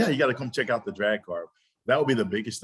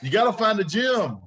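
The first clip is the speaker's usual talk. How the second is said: excited shout; 12 semitones higher, 3 dB louder than usual. Real, not acted. Host thrilled the guest set up the gym first, excited shout. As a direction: yell it like you've found a kindred spirit.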